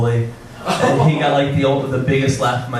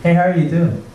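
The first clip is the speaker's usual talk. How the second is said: almost Joey; 2 semitones higher, faster than usual. Acted. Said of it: "almost Joey from Friends".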